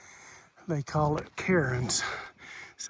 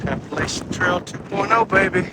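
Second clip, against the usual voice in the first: excited; 3 semitones higher, 5 dB louder than usual. Real, not acted. Catchphrase in the windy fog.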